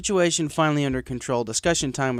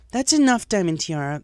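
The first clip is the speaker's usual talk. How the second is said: firm, louder teacher warning; teacher taking control; 7 semitones higher, 5 dB louder than usual. Acted. Teacher warns bully to stop, firm and loud. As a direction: rein in the class. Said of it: "attempting to get the situation under control".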